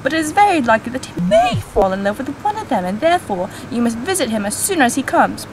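put-on reading Austen in a British accent. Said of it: "My British accent?".

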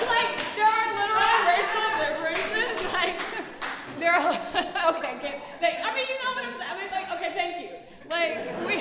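loud, high, talking through laughter; laughing hard. Real, not acted. Artist breaking up at her own point, laughing hard. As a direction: crack up mid-sentence and struggle on.

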